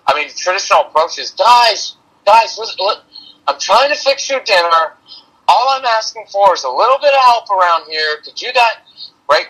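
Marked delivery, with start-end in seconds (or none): 1.3-8.8 put-on high pleading, whining plea to the kids; pleading whine. Frazzled mom in the kitchen begging her kids, pleading whine. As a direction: beg the kids for help, voice pitched high and whining. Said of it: "that pleading, whining tone".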